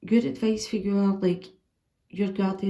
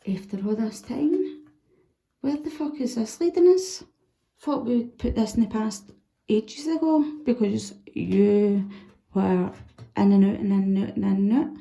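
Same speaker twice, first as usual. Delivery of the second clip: mock exasperated rant. Imagined rant at returning lover.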